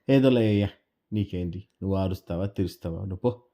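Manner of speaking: put-on loud, annoyed boy waving the old man away; irritated brush-off. Boy snapping at the stranger to leave him alone, irritated and loud. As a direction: push him off, fed up and sharp.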